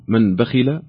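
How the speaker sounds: "من بخل" with the nun of "من" said fully and clearly before the ba; clear nun, izhar. Shown as a demonstration. Quiz host showing a caller the clear tajweed nun. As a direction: pronounce the n in "من بخل" distinctly, no nasal hiding. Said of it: "هل نظهرها فنقول".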